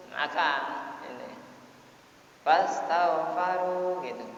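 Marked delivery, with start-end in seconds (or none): 2.4-4.0 slow drawn-out. Shown as a demonstration. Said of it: "Asalnya istighfaru gitu".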